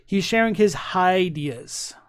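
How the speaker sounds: slow, deliberate repeat for clarity. Shown as a demonstration. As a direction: spell out the pun slowly. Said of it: "speak it a bit more slowly now".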